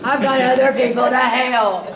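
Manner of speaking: laughing through a mock exasperated God; mock-annoyed God. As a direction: tease it as God fed up with her prayers. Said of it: "God probably was like".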